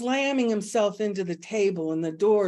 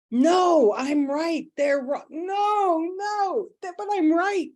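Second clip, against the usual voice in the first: much higher, insistent protest; stubborn ego throwing a tantrum; 9 semitones higher than usual. Retold or imitated. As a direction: play the ego that insists it's right. Acting out flailing ego.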